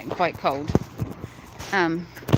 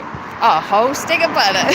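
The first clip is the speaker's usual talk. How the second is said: mock American stick of butter; 5 dB louder than usual. Mocking chat's phrase.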